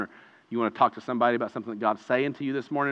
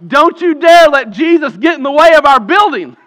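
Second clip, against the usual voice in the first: mocking leaders' warning; 12 semitones higher, 13 dB louder than usual. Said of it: "they're like".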